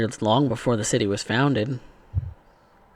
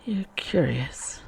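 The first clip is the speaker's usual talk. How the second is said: put-on old French accent; 5 semitones higher, 3 dB quieter, slower than usual. Seneschal studies Drummond.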